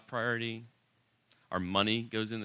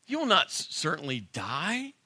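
sarcastic; 4 semitones higher than usual. Retold or imitated. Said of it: "can you just hear kind of the sarcasm in his voice".

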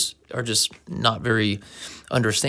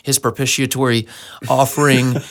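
mock-earnest sermon voice, louder on the big words; preachy Christianese testimony; 5 dB louder than usual. Christian sharing testimony with outsiders, mock preachy. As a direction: ham up the churchy jargon. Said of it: "they'll be talking about".

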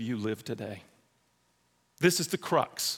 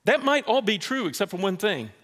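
gently firm, then hushed for I told you to go; voicing God; 5 semitones higher than usual. God answering Ananias, light then hushed and firm. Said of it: "God says".

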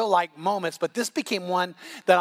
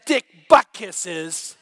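triumphant comeback; 2 semitones lower, 5 dB louder, slower than usual. Retold or imitated. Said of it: "I looked at him and said".

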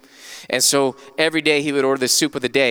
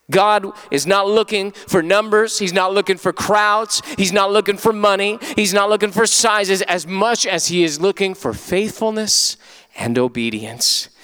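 raised, rhythmic pulpit list; emphatic preaching; 5 semitones higher than usual. Real, not acted. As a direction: build conviction through each repeated phrase. Preaches in repeated phrases.

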